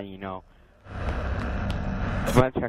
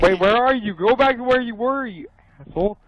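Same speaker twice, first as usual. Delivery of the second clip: high loud panicked scolding; scared angry shout; 10 semitones higher, 6 dB louder than usual. Real, not acted. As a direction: yell at him for leaving. Left behind, scared.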